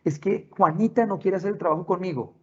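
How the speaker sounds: put-on high-pitched child voice; child to parent. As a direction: play a child complaining about a classmate. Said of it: "prácticas con nuestros hijos".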